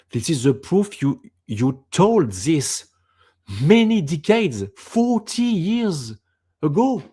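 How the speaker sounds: imitating an amazed companion, climbing high; retold amazement. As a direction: act out her astonishment, rising in pitch and volume. Retells companion's amazed reaction to tape.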